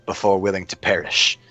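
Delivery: slow, deliberate kingly tone, lightly voiced; measured king. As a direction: weigh each word like a ruler pondering. King reads the note.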